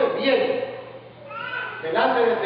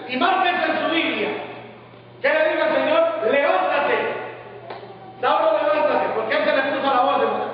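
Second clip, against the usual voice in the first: raised preacher voice, pitched high; impassioned preaching; 5 semitones higher than usual. Real, not acted. Preacher repeating the Lord's command to Saul, emphatic preaching. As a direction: proclaim the command to the congregation.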